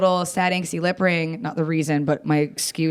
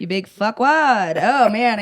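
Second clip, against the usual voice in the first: louder, drawn-out insult; still bitter; 4 semitones higher, 4 dB louder, slower than usual. Real, not acted. Comic gives shout out to ex, bitterly. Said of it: "I'm still bitter".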